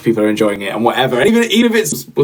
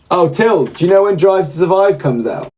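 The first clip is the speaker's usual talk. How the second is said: raised voice calling across the room; 6 semitones higher than usual. Real, not acted. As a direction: call to Tilly in the next room. Calling out to Tilly off-mic.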